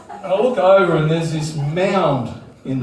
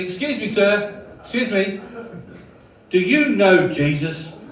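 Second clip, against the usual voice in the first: mildly put-on eager evangelist, a little higher; smiling Christian; 5 semitones higher than usual. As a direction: imitate a happy street preacher approaching politely. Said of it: "smiling Christians".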